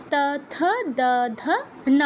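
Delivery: ত থ দ ধ ন in an even recitation; tongue to upper teeth for ত থ দ ধ ন; dental letter drill. Shown as a demonstration. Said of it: "আমি আবার করে দিচ্ছি". (ত বর্গ, দন্ত্য উচ্চারণে আবৃত্তি)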